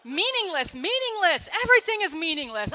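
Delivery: a hint of mock despair, each phrase falling; half-hearted wail of futility; exasperated Solomon. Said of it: "He's like".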